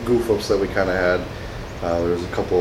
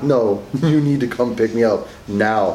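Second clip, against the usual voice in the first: mock no-nonsense, stern, firm insistence; 3 semitones higher than usual. Recalling a phone call after a stolen car, retelling a stern voice. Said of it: "I had to get that stern voice finally".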